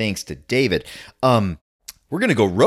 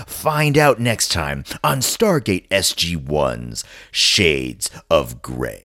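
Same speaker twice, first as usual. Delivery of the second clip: slow announcer sign-off, dropping low; cliffhanger hushed stop; 3 semitones lower, slower than usual. Acted. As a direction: end the trailer on a slow hush. Mock trailer sign-off.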